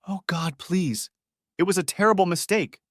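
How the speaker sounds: mild acted scream, pitched high; screamed plea. A narrator's reading. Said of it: "she screamed".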